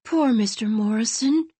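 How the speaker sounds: put-on exhausted girl pitying the old man; sobbing pity. A narrator's reading. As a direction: say it through tears. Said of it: "she sobbed".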